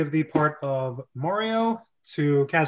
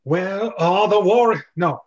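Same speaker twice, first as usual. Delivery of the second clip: thunders; 2 semitones higher, 4 dB louder than usual. Acted. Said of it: "Walton thunders".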